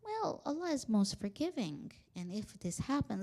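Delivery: gentle, measured reassurance, imitating a scholar; very calm. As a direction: ease into a careful answer, softly. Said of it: "very calmly say".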